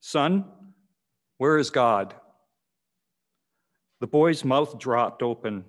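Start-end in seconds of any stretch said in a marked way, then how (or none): 0.0-2.2 a hint of a stern pastor asking "Son, where is God?"; lightly voiced stern question, "where" leaned on. Pastor to the young boy, a hint of sternness. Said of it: "asked him sternly".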